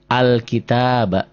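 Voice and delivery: al-kitaba read slowly and distinctly; measured al-kitaba with a long middle a; pronunciation demo. Shown as a demonstration. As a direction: model al-kitaba for a learner. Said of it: "di sini a ini jadi a".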